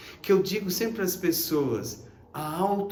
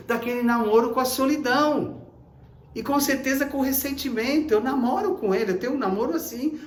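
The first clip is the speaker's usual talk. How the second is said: higher, louder mock lament; hammed-up self-pity; lonely complainer; 6 semitones higher, 4 dB louder than usual. Preacher voicing a lonely person's complaint, mock lament.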